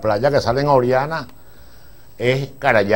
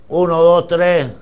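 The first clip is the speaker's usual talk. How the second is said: counting off; 7 semitones higher, 4 dB louder, slower than usual. Retold or imitated. Counting aloud for the take.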